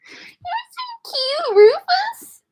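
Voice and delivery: very high squeal at the cat. Real, not acted. Squealing lovingly at her cat Rufus in a squeaky baby voice. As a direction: squeal his name with delight.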